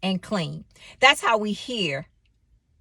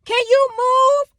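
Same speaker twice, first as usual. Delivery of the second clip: high, strained and louder; exasperated, pitched-up plea to move; agitated demand; 5 dB louder, much slower than usual. Retold or imitated. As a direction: snap at the lady blocking the parking spot. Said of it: "I was a little bit agitated".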